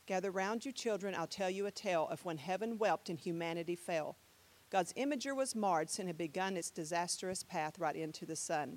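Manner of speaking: subdued poetry reading; spoken-word recital. Shown as a demonstration. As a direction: recite quietly, feeling for the rhythm. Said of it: "this is a spoken word here".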